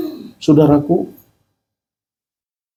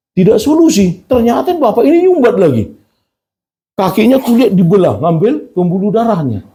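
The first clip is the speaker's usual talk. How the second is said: retold distressed complaint; 6 semitones higher than usual.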